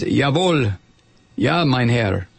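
English spy's put-on German; movie German accent. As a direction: answer obediently in mock film German. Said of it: "would consider a German accent".

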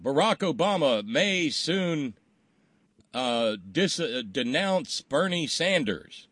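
slow, drawn-out mock headline read; showy headline. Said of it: "showy headline".

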